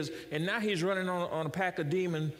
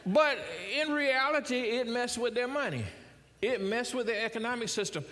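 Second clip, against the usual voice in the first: laughing emphasis; 6 semitones higher than usual. Real, not acted. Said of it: "preacher driving point home".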